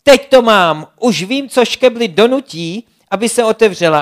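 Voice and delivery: Šibalka shouts out her new plan to her friends; excited shout. Acted. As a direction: burst out with the sudden idea. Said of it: "pak najednou vykřikla".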